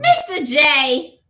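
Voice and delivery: Harley Quinn. Pretend. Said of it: "Harley Quinn!".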